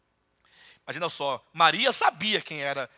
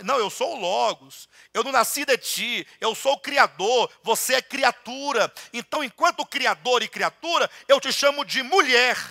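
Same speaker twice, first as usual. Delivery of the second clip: loud, higher proclamation; commanding voice of God; divine authority; 5 semitones higher, 6 dB louder than usual. Retold or imitated. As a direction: proclaim it as the Creator. The Logos speaks with authority.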